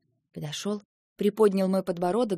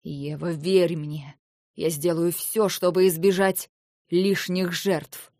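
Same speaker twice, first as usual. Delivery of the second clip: insistent; 6 dB louder, slower than usual. Acted. Lentar insisting to Eva.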